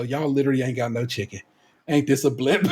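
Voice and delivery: laughing disbelief. Retold or imitated. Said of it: "And I go".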